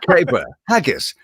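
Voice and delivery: mock Scottish accent; lightly hammed-up Scottish stock words. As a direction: put on a silly Scottish accent. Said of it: "that's a Scottish accent".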